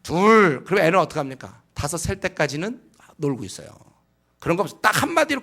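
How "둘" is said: slow, louder counting as a parent; a lightly voiced parent counting to the child; mock parent counting. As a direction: drag out the count like a parent who never acts. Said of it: "막 계속해".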